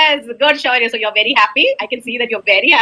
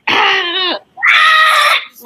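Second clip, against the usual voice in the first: pretend anger; 11 semitones higher than usual. Shown as a demonstration. Pupil shows the angry feeling in game, mock-angry roar. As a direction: let out an exaggerated cry of rage. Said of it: "now you have to show it".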